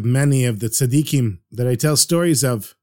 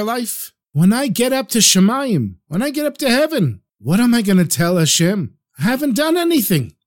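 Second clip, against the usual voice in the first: crying; 7 semitones higher than usual. Acted. Dying man crying to Rebbe.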